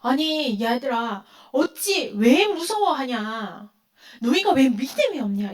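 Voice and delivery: slow, drawn-out reproach as Jesus; a mild, lightly voiced rebuke to the disciples; Jesus chiding his scared disciples, slow and mild; Jesus rebuking gently. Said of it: "이렇게 말씀하시는 거야".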